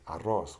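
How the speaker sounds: arroz with the R flapped two or three times; rolled double R. Shown as a demonstration. Teacher giving a double R example, trill in arroz. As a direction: roll the RR in arroz. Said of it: "flap your tongue two to three times".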